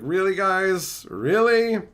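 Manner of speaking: slow, fed-up disbelief; drawn-out eye-roll at the designers; exasperated. Retold or imitated. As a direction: sigh out a bored whatever. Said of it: "And it's like".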